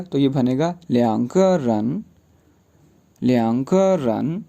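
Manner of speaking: ल्यांग रन said slowly and carefully; slow Chinese drill. Shown as a demonstration. Teacher repeating a Chinese phrase slowly for students. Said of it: "major word लगेगा".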